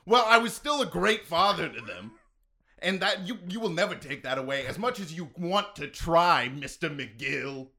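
hint of a transatlantic accent, slipping in when angry; like an old Hollywood star, transatlantic accent. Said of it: "you enter, like, a transatlantic accent".

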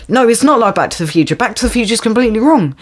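rattled off fast, a mock lecture tone; quick sarcastic retort; fast mocking quote. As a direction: race through it like a smug know-it-all. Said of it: "It's like".

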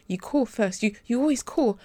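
rising into a mild angry outburst; losing her cool. Acted. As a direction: let the frustration spill out on always. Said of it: "she was losing her cool".

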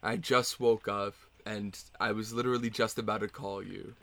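low, placating apology; sheepish partner making excuses; apologetic. Acted. Acted apology to angry partner.

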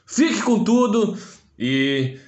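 drawn-out catchphrase; slow mock boast. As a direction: stretch the boast slowly. Sign-off catchphrase. (bordão arrastado)

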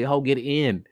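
quick, mocking modern paraphrase; casual moonfolk. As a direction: hurry her into the car, exasperated. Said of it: "It's like".

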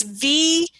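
slow, letter by letter; careful, spaced-out spelling; spelling out loud. Shown as a demonstration. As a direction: spell it out slowly, separating each letter. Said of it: "How do you spell it?".

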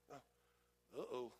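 breathy, low caught-out whisper. Retold or imitated. Believer realizing he witnessed to a Gentile, whispered. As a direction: realize you've messed up.

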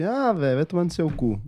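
"Ah, velho" thrown out high, then a casual insult; spoken with attitude. Shown as a demonstration. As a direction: say it like a real spoken jab, tone up on "Ah". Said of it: "tem uma entonação".

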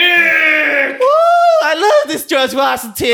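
loud, high cheering shout; excited cheering. Real, not acted. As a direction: whoop and cheer him on. Cheering on the speech.

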